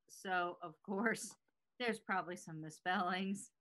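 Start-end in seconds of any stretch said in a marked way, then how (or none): none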